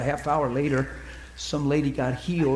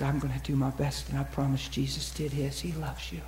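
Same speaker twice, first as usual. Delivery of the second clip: tender promise; 7 dB quieter than usual. Retold or imitated. Soft promise to woman in pain.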